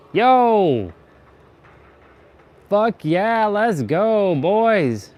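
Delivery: loud, high bro cheering; frat bro. Real, not acted. Celebrating with teammates.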